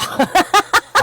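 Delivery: bursts into a high, loud laugh. Real, not acted. Laughing at her own story.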